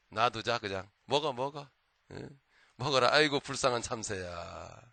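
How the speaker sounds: mocking bear. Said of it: "참새를 조롱을 합니다".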